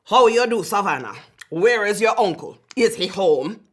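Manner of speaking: loud, pushy demand at the door; loud landlord. A narrator's reading. Landlord demands the uncle at the front door, loudly. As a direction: call it out like a cross landlord.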